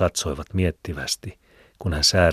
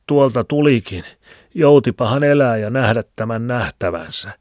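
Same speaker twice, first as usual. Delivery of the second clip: put-on higher, louder old Filemoni with a cackle; old man's voice; 7 semitones higher, 7 dB louder than usual. A narrator's reading. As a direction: chuckle and ramble like an old hermit. (vanhan miehen hekottava ääni)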